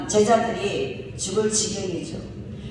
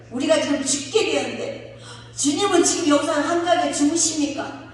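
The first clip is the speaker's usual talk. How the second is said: higher, whining reproach; resentful complaint; 6 semitones higher than usual. Retold or imitated. Disciples reproaching sleeping Jesus, resentful. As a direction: complain he sleeps while we drown. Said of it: "원망 섞인 소리를 했을 거예요".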